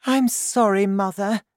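high-pitched mother voice; high, placating daughter; Missus Cranky, apologetic. A narrator's reading.

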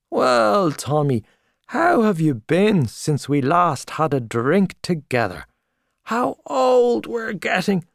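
put-on loud, high, back-slapping old friend at the bar; hearty Gallagher. Gallagher greeting old friend Tommy in the pub, loud and hearty. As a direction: boom out the welcome like a showy journalist.

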